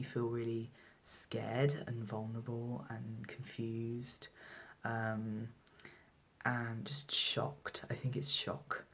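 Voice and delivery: hushed, stunned whisper; barely voicing it, still in shock; shaken whisper. Real, not acted. Shaken after a hurtful call.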